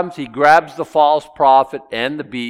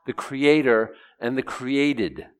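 usual speaking voice

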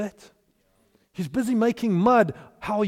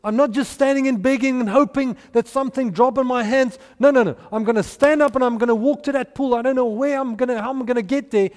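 raised, emphatic declaration of faith; persisting; 3 semitones higher, 4 dB louder than usual. Retold or imitated. Blind man calls out to Jesus, persisting. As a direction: insist in driving, punched phrases.

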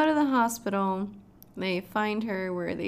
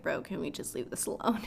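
weary plea; 4 semitones lower, 5 dB quieter than usual. Retold or imitated. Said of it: "And Mark's like".

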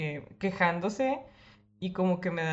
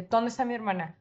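firm demand; 3 semitones higher than usual. Retold or imitated. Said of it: "lo agarré de la camisa".

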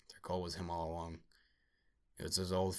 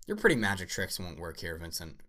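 menacing; 6 dB louder than usual. Acted. Android grabs Anderson's throat.

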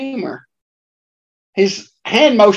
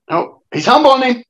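excited call; 5 semitones higher than usual. Real, not acted. Calling out wrestling move.

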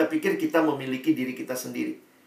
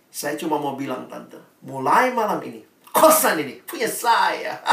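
mock proud claim; 4 dB louder than usual. Mengulang pengumuman ke tante.

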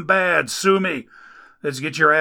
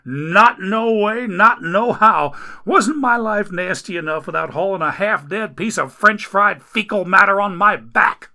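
higher, louder, fast grumbling at the Lord; griping complaint; 7 semitones higher, 6 dB louder than usual. Acted. Man hauling Dagon upstairs complains to God, griping loudly. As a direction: gripe up the stairs at heaven. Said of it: "with every step the man griped".

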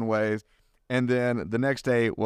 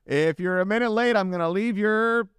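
hint of an Irish accent; 6 semitones higher than usual. Retelling the rough tour guide's warning, a hint of Irish accent. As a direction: slip into a touch of Irish brogue for the tour guide. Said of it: "I heard your accent starting to break out".

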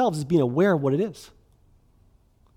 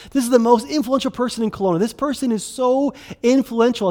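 higher-pitched, mildly hammed-up hype; gushing introduction; 6 semitones higher than usual. Friends introducing an influential person in Kelowna, mock gushing. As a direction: imitate friends talking someone up. Mimics friends hyping an acquaintance.

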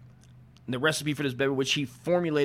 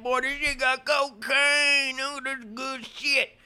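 much higher, loud hammed-up Southern old-timer, slow; old Southern drawl; 13 semitones higher, 4 dB louder, slower than usual. Old Southern man hollering about cocaine in his drink, hammed-up Southern twang. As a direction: play a rowdy Southern gentleman whooping over his cola. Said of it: "I think they all talk like that back".

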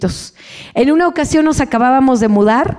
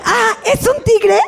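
mock surprise; 9 semitones higher than usual.

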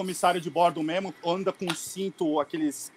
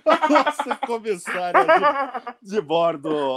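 laughing while talking; 7 semitones higher, 5 dB louder than usual. Real, not acted. Laughing while introducing guest.

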